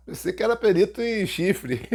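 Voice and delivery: joking jab. Retold or imitated. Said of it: "Todo mundo rindo pra caramba".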